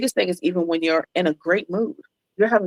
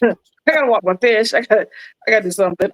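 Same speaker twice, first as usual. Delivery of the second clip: laughing, a bit louder, put-on silly voice; hammed-up lame excuse; 3 semitones higher, 3 dB louder, faster than usual. Retelling a silly excuse to a friend, laughing and hammed-up. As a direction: ham up a ridiculous excuse to hang up. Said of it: "Not walk the fish".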